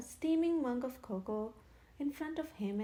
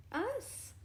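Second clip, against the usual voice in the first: roaring laugh; 9 semitones higher than usual. A narrator's reading. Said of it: "roared Henry".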